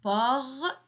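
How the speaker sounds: "Porte" as two separate beats, "por", pause, "te"; split into syllables. Shown as a demonstration. Teacher counts syllables with children, syllable by syllable. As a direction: break "Porte" apart, sounding the final "te" alone. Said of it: "il y a deux syllabes".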